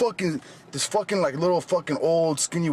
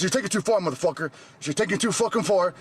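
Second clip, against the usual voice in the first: high-pitched, indignant telling-off; retold heated protest; 6 semitones higher, faster than usual. Gym-goer retelling his complaint to a stranger, agitated. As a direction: re-enact an argument with rising agitation.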